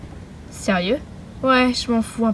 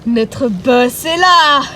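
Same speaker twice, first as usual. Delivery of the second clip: very slow, grand villain reveal; slow sinister reveal; dramatic announcement; 4 dB louder, much slower than usual. Acted. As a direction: stretch each word.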